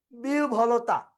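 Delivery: বিহ্বলতা said "biu-bholota"; pronunciation of বিহ্বলতা. Shown as a demonstration. Teacher introducing an easy word, careful "biu-bholota" pronunciation of বিহ্বলতা. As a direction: sound বিহ্বলতা as "biu" then aspirated "bholota". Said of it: "একদম সহজ উচ্চারণ আসছে".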